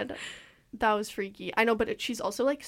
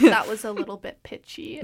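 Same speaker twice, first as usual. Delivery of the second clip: loud quote breaking into laughter; laughing mock critique; 10 dB louder than usual. Friend quoting the movie mom's critique, laughing loudly. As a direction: deliver the nitpick through rising laughter.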